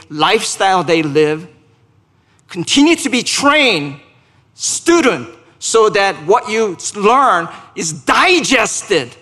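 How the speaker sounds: urgent pulpit charge; emphatic preaching. Acted. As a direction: preach it with weight on the key words. Preacher exhorting, voicing message to Timothy.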